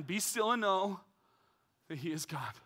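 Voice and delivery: calm scripture quote; quoted verse, gentle. Shown as a demonstration. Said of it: "let me give you Psalm forty-six ten".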